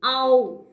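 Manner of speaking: "ow" as a single gliding diphthong, loud; emphatic, isolated "ow"; vowel sound demo. Shown as a demonstration. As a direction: sound out "ow" as in cow. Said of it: "That another is O W".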